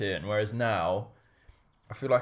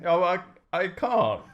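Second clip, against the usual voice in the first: pained by a stinging eye; 5 semitones higher, 5 dB louder, slower than usual. Real, not acted. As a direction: wince through the sting. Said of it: "my eye's actually worse".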